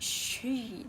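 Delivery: "she" stretched out for emphasis; single out "she" with a drawn-out vowel; stress on SHE. Shown as a demonstration. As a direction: lean long on "she". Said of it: "I'm emphasizing".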